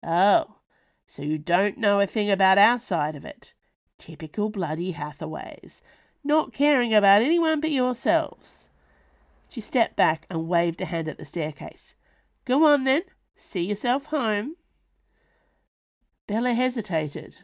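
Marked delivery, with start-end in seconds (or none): 0.0-8.7 sharp, louder, bitter jab at the Hathaways; angry retort. Acted. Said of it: "Selwa's face darkened with anger". 12.4-14.6 high, loud, contemptuous brush-off; curt dismissal. Acted. Selwa orders Bella out.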